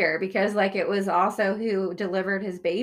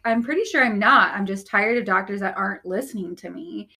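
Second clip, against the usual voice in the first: defiant comeback; 4 dB louder than usual. Retold or imitated. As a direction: snap the answer straight back at her, louder. Defiant comeback to doctor quoted.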